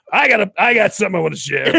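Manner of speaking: gruff hobo at an AA meeting; rough puzzled mumbling. Acted. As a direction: mumble it like a crusty old hobo. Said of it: "I like your hobo voice".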